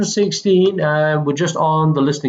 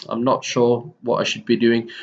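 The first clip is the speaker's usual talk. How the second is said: nervous; 5 semitones lower than usual. Shown as a demonstration. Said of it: "Nervous is like".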